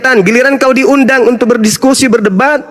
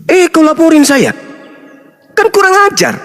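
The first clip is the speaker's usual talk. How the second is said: much higher, indignant outburst; outraged; 7 semitones higher than usual. Real, not acted. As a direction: spit out the insult in disbelief. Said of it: "outraged at being reported". (marah dan tidak percaya dilaporkan)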